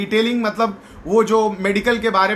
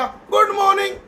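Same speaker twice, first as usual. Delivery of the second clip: timid mumble; 10 semitones higher than usual. Retold or imitated. Shy trainee forced to greet.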